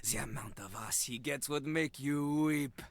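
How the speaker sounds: put-on low, smug French-accented talk. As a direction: boast like a vain French rapper. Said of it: "doing a French accent".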